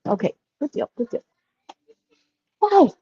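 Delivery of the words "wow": surprised wow. Real, not acted. Reacts while browsing products.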